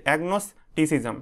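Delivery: "agnosticism" slowly, agnos - ticism; broken into syllables. Shown as a demonstration. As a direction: pause inside "agnosticism" to teach it. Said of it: "ভেঙে ভেঙে উচ্চারণ করবে". ("agnosticism" ভেঙে ধীরে উচ্চারণ)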